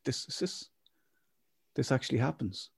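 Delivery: hushed, amazed whisper; stunned tourist whispering to himself; whispered disbelief. Retold or imitated. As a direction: breathe it out like you can't believe your eyes. Disbelief at American scene.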